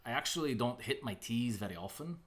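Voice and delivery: Scottish with rolled R's; Scottish accent demonstration. Shown as a demonstration. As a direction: do a Scottish accent, dropping the T's. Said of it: "I did do Scottish".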